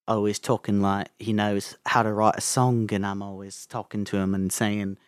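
lightly voiced Liverpool accent; tentative, rambling Liverpudlian impression of a famous singer. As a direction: warm up into a loose Liverpool accent. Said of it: "I need to warm up to this voice first".

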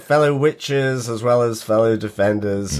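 nasal, croaky sick voice. Real, not acted. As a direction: talk through a blocked, sore throat. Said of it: "my croaky voice".

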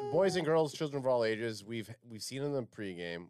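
ringmaster. Pretend. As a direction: introduce the act to the crowd. Introducing guest like a ringmaster.

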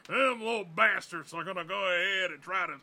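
lightly voiced gruff army colonel. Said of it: "stereotypical Colonel voice".

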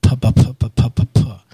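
gentle filtered pa pops; soft lip popping. Shown as a demonstration.

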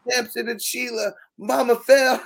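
"mama fell" pushed up loud and high; hammed-up emergency; mock urgent call. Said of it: "funny conversation".

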